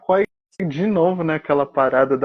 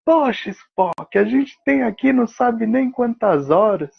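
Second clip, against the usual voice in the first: slightly higher-pitched, exasperated retort; lightly acted flustered protest; mildly irritated McCoy; 5 semitones higher than usual. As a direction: imitate a rattled doctor complaining to a colleague. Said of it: "ele já fica nervoso e fala".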